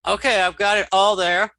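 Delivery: cheerful relieved exclamation; pleased relief. Real, not acted. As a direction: celebrate finally getting it all in. Finished pasting all the text.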